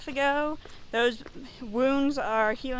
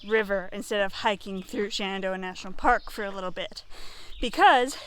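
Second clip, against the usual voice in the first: breathless from the uphill walk; talking while winded on a hill; out of breath; 3 semitones lower than usual. Real, not acted. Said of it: "sorry, I'm out of breath walking up a hill".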